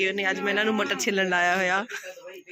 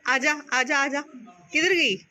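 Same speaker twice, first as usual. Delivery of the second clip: calling the cat; 5 semitones higher than usual. Real, not acted. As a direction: coax the cat out.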